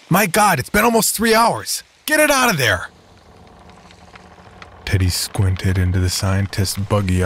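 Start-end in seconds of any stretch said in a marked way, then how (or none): 0.1-2.9 high, panicked outcry; frantic high panic. Acted. Doctor panics over dying shark.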